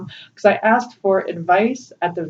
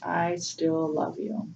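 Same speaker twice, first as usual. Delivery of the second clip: close to tears; 5 dB quieter, slower than usual. Real, not acted. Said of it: "I'm gonna cry".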